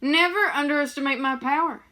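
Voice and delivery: a loud, high mock brag; boastful Sam. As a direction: crow about your own power. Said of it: "and Sam goes".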